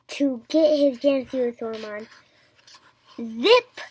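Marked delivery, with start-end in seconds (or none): 3.2-3.8 quick loud "Zip!"; shouted. A narrator's reading. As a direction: shout it as you jump. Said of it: "he shouted as he jumped".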